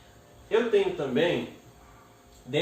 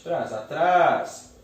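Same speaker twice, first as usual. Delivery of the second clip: "atrás" with TRÁS loud and drawn out; stressed last syllable; 2 semitones higher, 6 dB louder, much slower than usual. Shown as a demonstration. Teacher shows the strong syllable, "atrás" stressed on the end. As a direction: lean long and hard on the "trás" of "atrás". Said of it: "Qual a sílaba forte?".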